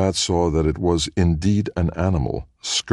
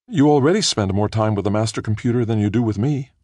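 half complaining; 7 semitones higher, 3 dB louder than usual. A narrator's reading. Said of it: "she half complained".

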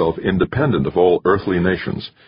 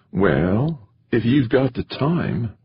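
high, teasing female voice with a smile; impish; 6 semitones higher, much slower than usual. A narrator's reading. Woman to companion about an overnight stay, high impish tease. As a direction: tease him, slowing on the second phrase. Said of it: "V J smiled impishly".

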